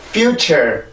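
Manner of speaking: "future" with a renewed lift on -ture; second syllable lifted. Shown as a demonstration. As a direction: keep a light stress on the end of "future". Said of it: "한 번 더 올라와야 된다고".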